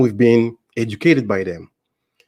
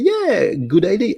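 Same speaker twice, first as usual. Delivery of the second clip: excited; 8 semitones higher than usual. Retold or imitated. Son agreeing to buy house.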